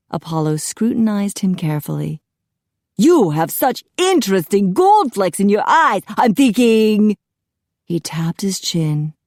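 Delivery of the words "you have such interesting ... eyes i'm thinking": loud, higher, admiring; musing stylist. A narrator's reading. Apollo studies Jack for colour ideas, theatrical musing. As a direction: build suspense while pondering a makeover.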